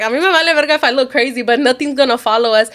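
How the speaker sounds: mildly heated retold defiance; mom going off. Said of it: "my mom starts going off".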